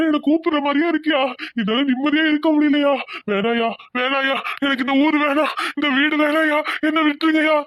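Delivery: distraught servant begging for release; anguished pleading. Acted. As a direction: plead in anguish, voice mostly lifted. Guilty servant begs to leave.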